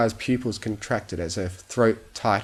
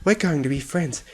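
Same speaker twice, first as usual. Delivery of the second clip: higher sing-song coo, We're leaned on; cooing promise; 7 semitones higher than usual. Acted. Fluttershy coos to the captured bunny, higher and sing-song. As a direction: croon it to the bunny in your hooves.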